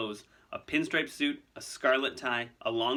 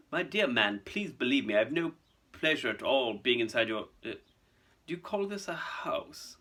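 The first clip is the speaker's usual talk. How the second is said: sneering. Acted. Malfoy scorning Hagrid's cabin, sneering. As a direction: trail into a contemptuous question. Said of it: "sneering as he looked".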